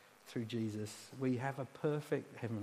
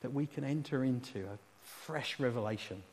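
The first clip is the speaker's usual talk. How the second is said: gentle, earnest prayer in pausing phrases; intercessory prayer; 2 semitones lower than usual. Real, not acted. Preacher praying a blessing on the congregation, gentle and earnest. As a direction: ask sincerely on the people's behalf.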